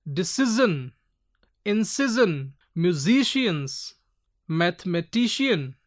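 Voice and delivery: "decision, incision, musicians, mathematician", each stressed before its ending; word list, leaning on ci, si and ti in "decision, incision, musicians, mathematician"; penultimate stress. Shown as a demonstration. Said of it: "prior syllable will be given more stress".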